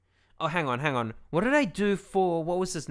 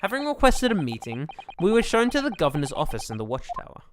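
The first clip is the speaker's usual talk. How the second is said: measured narrator reading the scene; story narration. Acted. Streamer reading the game's narration, unhurried narrator voice. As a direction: set the prison scene like a storyteller. Reads game narration aloud.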